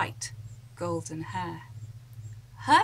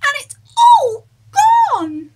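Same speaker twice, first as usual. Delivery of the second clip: very high, loud tearful cub wail; crying Baby Bear; 15 dB louder than usual. Acted. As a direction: wail like a little bear whose breakfast is gone. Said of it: "Baby Bear said".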